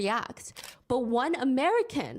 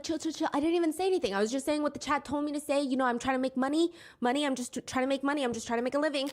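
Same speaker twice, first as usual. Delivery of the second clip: higher, hurried nervous excuses; man backpedaling to a biker, higher and hurried; mock panicked pleading; 4 semitones higher, faster than usual. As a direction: imitate a scared man backpedaling.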